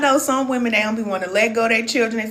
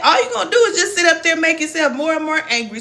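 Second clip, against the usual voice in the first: laughing; 7 semitones higher, 4 dB louder, faster than usual. Real, not acted. Laughing while scolding.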